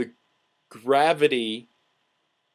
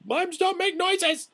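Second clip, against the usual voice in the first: incredulous. Real, not acted. Incredulous outburst about mimes.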